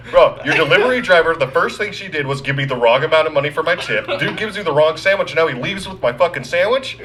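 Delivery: high-pitched retold rant; losing his mind. Customer ranting at store over sandwich, high exasperated complaint. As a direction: recreate an exasperated outburst, voice climbing. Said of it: "I was losing my mind".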